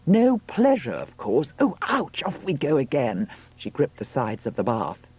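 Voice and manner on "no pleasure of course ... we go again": high voice breaking into an ouch; pained outburst. Acted. Woman in labour as pain returns, crying out. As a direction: leap high as the contraction hits.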